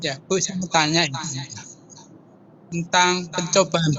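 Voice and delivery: suara terputus-putus; radio breaking up. Real, not acted. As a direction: sinyal jelek, suara patah-patah. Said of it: "Suaramu putus-putus". (suara putus-putus karena sinyal)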